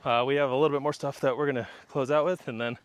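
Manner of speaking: winded, breathing hard; out of breath after running. Real, not acted. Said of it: "catching my breath".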